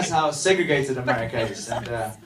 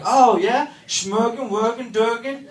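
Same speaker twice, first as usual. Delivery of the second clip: higher gibberish imitating the Muppets' Swedish Chef; mock Swedish Chef; 6 semitones higher, slower than usual. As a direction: fake Swedish gibberish, a bit higher and mocking. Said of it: "they're like".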